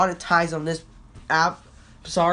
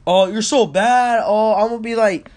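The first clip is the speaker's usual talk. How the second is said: mocking taunt; 4 semitones higher, 5 dB louder than usual. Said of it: "I was like".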